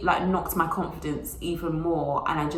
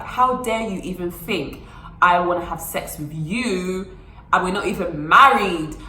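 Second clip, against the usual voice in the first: mock outrage. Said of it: "I was like".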